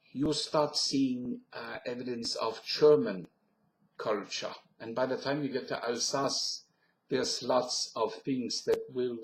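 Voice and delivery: French sliding into German accent; English with a put-on German accent. Shown as a demonstration. Guide heading east through Alsace, German accent.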